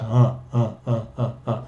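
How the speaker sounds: just open the mouth and voice a lazy ah; teacher showing how easy the schwa is; relaxed schwa. Shown as a demonstration. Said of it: "usar voz y decir".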